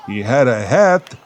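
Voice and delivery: lightly done Jewish comic lilt on hat; a hint of Myron Cohen; Myron Cohen delivery. Eight-year-old retelling joke to grade fours, mild Cohen lilt. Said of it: "talking more like Myron Cohen".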